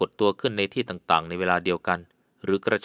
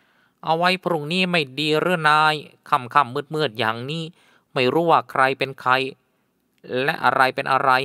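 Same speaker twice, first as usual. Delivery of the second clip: higher, slow, pleading headman; wary headman; 5 semitones higher, slower than usual. A narrator's reading. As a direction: hold him back from going out at night. Headman warns against night search. (หัวหน้าคนนำทางเสียงสูง ช้า อ้อนวอนไม่อยากไป)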